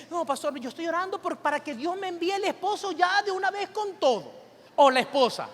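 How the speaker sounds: mocking churchgoer. Pastor mimicking a congregant who wants a spouse at once, lightly mocking. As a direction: poke fun at someone demanding a spouse now. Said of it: "hay personas que me dicen".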